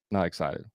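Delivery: low, soft "Not excited" falling at the end; confirming drop-off. Shown as a demonstration. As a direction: let "excited" sink into a statement. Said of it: "That's, like, confirming".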